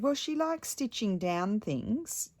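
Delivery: lightly hammed-up helpful husband; mock Stefano. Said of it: "he said".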